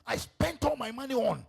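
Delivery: high, loud anguished cry; broken-down outcry. Acted. King crying out at his favourite wife's betrayal, high and loud. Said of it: "The man was broken down".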